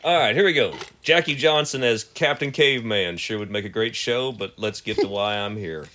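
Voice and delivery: reading with a cigarette in mouth. Shown as a demonstration. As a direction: talk around a lit cigarette. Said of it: "let me light a cigarette".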